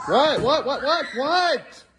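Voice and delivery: high, loud repeated what; exasperated what. Real, not acted. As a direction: snap back at the noise.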